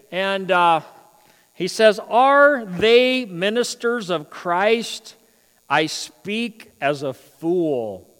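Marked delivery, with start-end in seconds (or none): 2.0-8.1 slow, dry mock-humble scripture read; sarcastic reading. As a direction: drag it out with a sly sarcastic edge. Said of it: "See, sarcasm's in the Bible".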